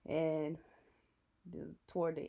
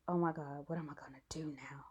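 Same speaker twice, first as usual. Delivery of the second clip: panicked whisper under her breath; whispering to herself; 3 semitones lower, 4 dB quieter than usual. Retold or imitated. To herself, nervous before the photo, whispered. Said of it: "I was talking to myself".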